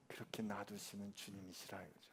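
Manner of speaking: hushed whisper to the congregation. Real, not acted. Pastor whispering to the congregation about the Lord. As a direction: breathe it like a secret.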